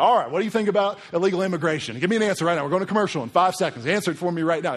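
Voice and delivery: put-on loud, high Southern-accented TV host; pushy talk-show grilling with a Southern twang; Nancy Grace. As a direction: badger a guest in a mock Southern accent. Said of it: "She's got, like, terrible Southern accent".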